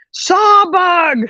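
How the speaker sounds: high mock yell of warning; alarmed cry. She yells out the bug alarm.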